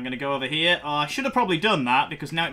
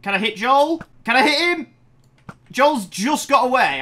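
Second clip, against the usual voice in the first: higher, louder eager rush; excited chase; 9 semitones higher, 8 dB louder than usual. Real, not acted. Chasing Joel who has no health, excited and louder. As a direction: chase him down, thrilled.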